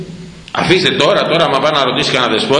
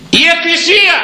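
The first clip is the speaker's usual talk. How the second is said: high, loud outburst; exclamation; 4 dB louder than usual. Real, not acted. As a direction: blurt it out with indignation. Bursts out answering own question. (ψηλή, δυνατή αγανακτισμένη κραυγή)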